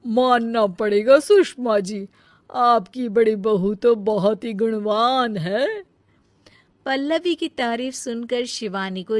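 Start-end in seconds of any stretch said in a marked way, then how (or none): 0.1-5.8 lightly voiced aunt. Aunt praises elder bride.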